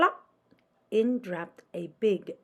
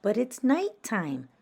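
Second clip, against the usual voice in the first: squeaked; 4 semitones higher, 4 dB louder than usual. Acted. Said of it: "Stella Luna squeaked".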